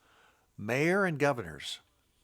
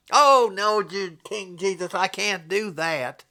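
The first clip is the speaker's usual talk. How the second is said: higher, pleading mock whine; whiny timid believer; 5 semitones higher, 6 dB louder, slower than usual. Preacher mocking a fearful Christian, whiny plea.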